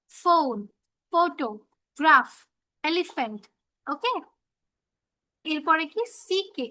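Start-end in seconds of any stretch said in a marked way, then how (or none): 0.1-3.4 "ফোন, ফটো, গ্রাফ, এলিফ্যান্ট", each separate with a clear "ফ"; PH sound demo. Shown as a demonstration. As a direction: drill PH as "ফ" word by word. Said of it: "ব্যঞ্জন বর্ণে ফ এর মতো".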